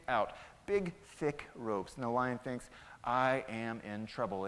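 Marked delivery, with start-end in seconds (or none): 3.0-4.5 slow, low, word-by-word dread; grave realization. Acted. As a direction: let each word sink in slowly. Trapped lion realizes his danger.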